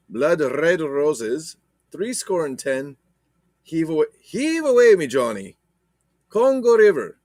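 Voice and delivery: mock Irish accent reading titles; hammy Irish lilt. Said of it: "my Irish accent sucks".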